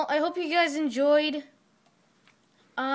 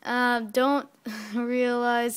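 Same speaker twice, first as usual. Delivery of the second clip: stifled giggles; much slower than usual. Real, not acted. Reading through laughter.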